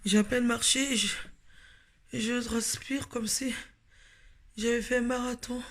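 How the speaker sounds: out of breath after a few steps; essoufflée. Real, not acted. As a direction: talk while catching your breath. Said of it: "je suis essoufflée déjà". (à bout de souffle)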